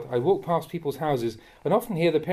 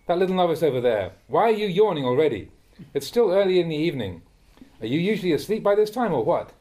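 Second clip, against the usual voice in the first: louder, higher pointed questioning; teasing scolding; 4 semitones higher, 4 dB louder than usual. Real, not acted. Teacher to a novice yawning early in the evening, teasing scolding. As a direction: call out a drowsy pupil with loud incredulous questions.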